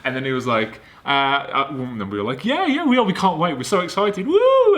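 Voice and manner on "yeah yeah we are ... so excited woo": mock excitement. Retelling their eager reply.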